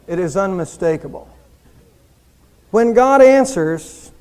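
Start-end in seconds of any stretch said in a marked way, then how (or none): 2.7-4.1 louder, slow and weighty; slow loud emphasis. Real, not acted. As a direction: hit it harder, stretch it out. Preacher slowing for emphasis.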